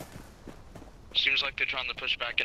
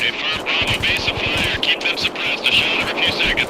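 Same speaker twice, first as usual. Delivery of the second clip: loud, raised voice calling out commands; shouting orders; 5 semitones higher, 7 dB louder than usual. Real, not acted. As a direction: bark it across the field. Calling orders across the firefight.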